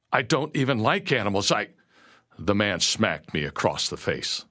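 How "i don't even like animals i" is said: high, anxious objection; nervous stammer. A narrator's reading. New slave objecting to master, stammering anxiously. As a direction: protest weakly until cut off. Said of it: "I stammered".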